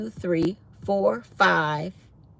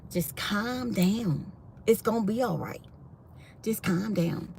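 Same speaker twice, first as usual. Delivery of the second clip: retold soothing; 2 semitones higher, 5 dB quieter than usual. Retold soothing of panicked coworker.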